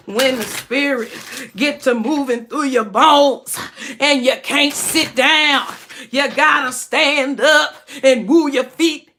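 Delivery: lightly voiced preacher, slowed down; a hint of a Sunday preacher. Mimicking church pastors for viewers, lightly preachy. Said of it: "That's how them pastors be".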